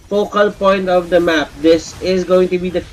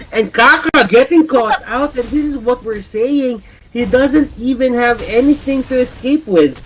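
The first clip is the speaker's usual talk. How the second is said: higher-pitched, urgent esports call; excited play-by-play; 7 semitones higher than usual. Real, not acted. Caster calls Kaka getting caught out, excited. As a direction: call the catch with rising excitement.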